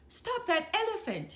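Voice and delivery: high, loud ringmaster shout; shouted order. A narrator's reading. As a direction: bark the order to stop. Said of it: "he shouted".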